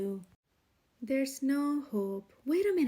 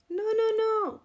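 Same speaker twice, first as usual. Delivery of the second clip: exasperated no; 7 semitones higher, 6 dB louder than usual. A narrator's reading. Rooster stops Iguana's mistake.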